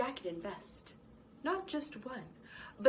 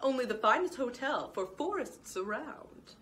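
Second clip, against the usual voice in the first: proud exclamation; 5 semitones higher than usual. Acted. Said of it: "exclaimed Giles".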